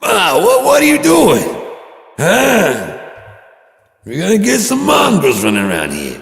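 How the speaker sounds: very high, loud scandalized son; hammed-up shaming of mom, cracking into shrieks; mock outraged shout.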